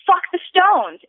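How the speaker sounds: high-pitched mock yell; retold yell. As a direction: imitate a dad yelling out at a show. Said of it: "yells out".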